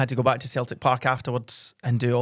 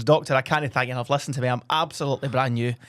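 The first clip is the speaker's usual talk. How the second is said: cured normal voice. Acted. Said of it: "cured voice now normal".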